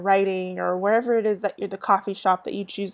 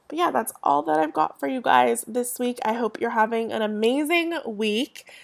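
stuffy nose from allergies; nasal voice; 3 semitones higher than usual. Real, not acted. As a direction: talk through blocked sinuses, nasal. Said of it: "I know I sound a little nasally".

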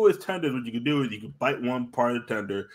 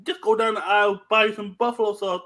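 higher, exasperated telling-off; telling the Kmart worker to buy sauce, higher and exasperated; mock exasperated instruction; 10 semitones higher than usual. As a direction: talk down to the worker like it's obvious. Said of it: "I was like".

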